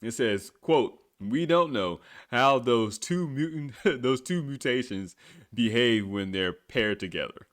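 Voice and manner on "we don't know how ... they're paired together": reading through laughter. Real, not acted. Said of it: "I can't read this shit without laughing".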